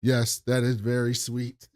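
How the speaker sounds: lightly mimicked robot, slow and measured; a hint of a slow robot voice. Podcaster quotes Day mocking the robot, mild robot voice. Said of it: "Day says in a robot voice".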